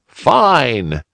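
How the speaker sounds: happy to help; glad cry. A narrator's reading. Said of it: "cried the bunny uncle again".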